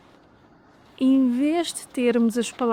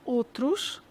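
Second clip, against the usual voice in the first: "Os" then "outros" after a pause; separated; 5 dB quieter than usual. Shown as a demonstration. Teacher first saying os and outros apart. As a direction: break between os and outros.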